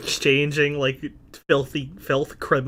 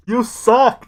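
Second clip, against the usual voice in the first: loud, higher shouted jeer; distant heckle; 8 semitones higher, 7 dB louder than usual. Acted. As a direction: yell it from the back. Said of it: "have a distant".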